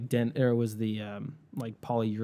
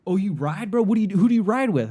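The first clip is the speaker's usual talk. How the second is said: mock biker bro; 7 semitones higher, 3 dB louder than usual. Mocking LA biker bros.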